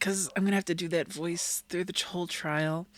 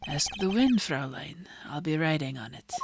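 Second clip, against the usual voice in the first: suave farewell; 3 semitones lower than usual. Acted. The speaker's theatrical farewell.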